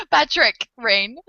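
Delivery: the name said slowly with a light French accent. Shown as a demonstration. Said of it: "I say it with a French accent".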